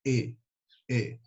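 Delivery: "E" closed and short; closed vowel. Shown as a demonstration. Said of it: "mais fechadinho". ("E" fechadinho)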